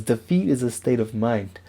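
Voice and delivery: light imitation of a Bruce Lee accent, barely shifted; understated Bruce Lee accent, mostly own voice. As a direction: read the quote in a faint hint of Bruce Lee's accent. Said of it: "maybe I'll stop doing the accent".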